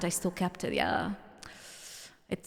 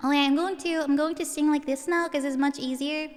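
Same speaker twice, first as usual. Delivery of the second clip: put-on higher cutesy anime girl voice; Uwu voice; 4 semitones higher than usual. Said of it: "So I'm gonna put on my best Uwu voice".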